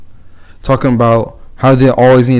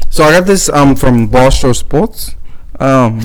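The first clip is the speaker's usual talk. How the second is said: alien voice. Acted. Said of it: "literally sound like an alien".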